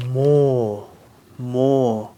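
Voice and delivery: "mo" low, held on a long o; syllable demonstration. Shown as a demonstration. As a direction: model "mo" slowly as one drawn-out syllable. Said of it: "how do you pronounce this syllable".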